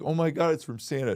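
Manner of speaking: put-on high, bright little-girl delight; niece's excited gasp. Niece opening the gift, squealing with joy. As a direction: gush like a thrilled child. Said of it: "She's like".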